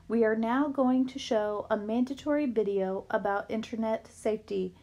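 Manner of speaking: eerie hypnotized announcer; weird announcement voice. Acted. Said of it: "she sounded weird".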